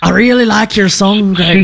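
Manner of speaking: playful Scottish compliment; mock Scottish accent. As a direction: imitate a Scottish singer's voice memo. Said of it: "She's Scottish. She's like".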